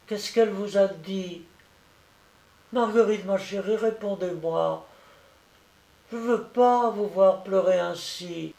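put-on high-pitched, tender little-boy voice; concerned pleading child. A narrator's reading. Sick boy begs his crying friend to answer, pleading.

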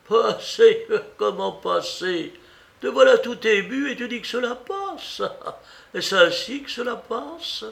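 very high, disbelieving questions; incredulous aunt. Acted. Aunt doubting that her niece is over it, incredulous challenge. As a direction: throw it back high and indignant.

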